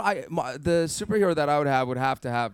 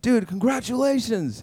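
higher, bright congratulating; mock excited friend; 12 semitones higher than usual. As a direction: cheer it down the phone. Friend voiced on phone.

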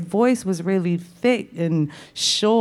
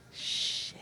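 whispered curse; 14 dB quieter than usual. Real, not acted. Realising she must direct a star.

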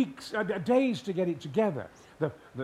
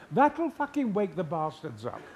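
slow, amused quote through laughter; laughing quote. Retold or imitated. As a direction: tell the punchline while laughing. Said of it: "And the Prime Minister said".

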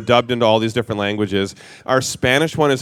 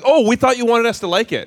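eager-to-please homeowner; 9 semitones higher than usual. Retold or imitated. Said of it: "They're like".

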